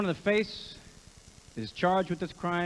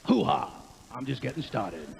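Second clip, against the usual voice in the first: Al Pacino hoo-ha; 5 semitones lower than usual. Acted. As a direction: bark it like Pacino. Pacino catchphrase again.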